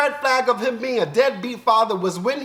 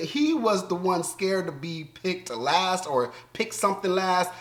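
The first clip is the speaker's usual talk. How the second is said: ordinary delivery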